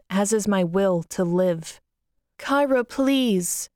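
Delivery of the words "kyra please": raised, higher pleading call through a door; mother calling. Acted. Mother calling through the locked door, higher pleading voice. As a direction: call out to her daughter, higher. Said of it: "my mother calls from outside".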